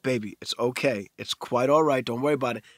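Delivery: retold soothing parent voice. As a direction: reassure an upset kid, voice eased down. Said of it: "trying to calm him down".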